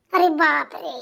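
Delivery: alarmed exclamation. Acted. Bahu alarmed again.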